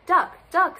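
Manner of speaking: high, loud call. A narrator's reading. Hen alerting duck to trouble, calling out high and loud. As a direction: call the name out urgently.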